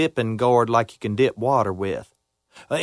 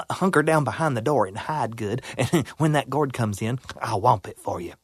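groundhog voice; 4 semitones lower, 5 dB quieter than usual. Acted. Groundhog advice, lower.

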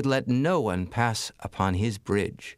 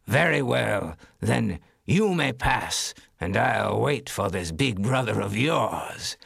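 troll voice; slower than usual. Acted. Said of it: "said the troll".

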